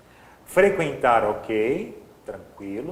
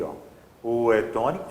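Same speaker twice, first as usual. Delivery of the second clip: ordinary delivery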